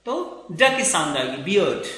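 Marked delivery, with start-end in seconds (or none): 1.4-1.9 बियर्ड as "bi-uhd", no R sounded; silent R. Shown as a demonstration. Teacher explains the R is not spoken, बियर्ड said R-less. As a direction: drop the R in बियर्ड, gliding into "uh". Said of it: "आर नहीं बोलते हैं".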